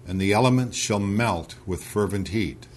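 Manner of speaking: measured, solemn Bible reading; unhurried recitation of scripture. Acted. Reads scripture aloud.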